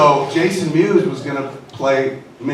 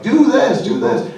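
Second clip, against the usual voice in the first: first "do this" yelled much higher and louder, the second dropping back; screaming through makeup; 13 semitones higher, 6 dB louder, slower than usual. Retold or imitated. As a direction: bark directions through a mask so the actor hears. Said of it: "I would have to scream through".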